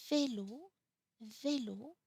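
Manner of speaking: vélo said twice like "vay-lo", lifted at the end; accent aigu example. Shown as a demonstration. French teacher giving an example of accent aigu, vélo with closed é. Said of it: "for example".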